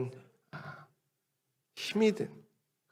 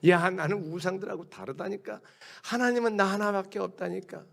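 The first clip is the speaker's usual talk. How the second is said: persuading God; 6 semitones higher than usual. Acted. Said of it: "설득하시잖아요".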